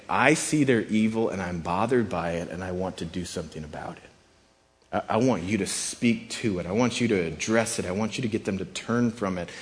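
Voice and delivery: quietly troubled but caring; caring concern. Acted. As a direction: gently urge someone to step in and help. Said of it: "it is a sign of God's care".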